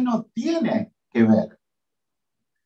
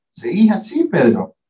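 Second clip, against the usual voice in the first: harsh rebuke; 4 dB louder than usual. Acted. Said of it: "lo dice durísimo Jesús".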